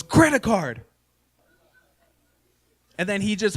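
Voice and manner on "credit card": put-on louder, higher kid voice; kid's gleeful call. Young son swipes dad's butt, gleeful kid call. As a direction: chirp it like a cheeky little boy. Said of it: "and goes".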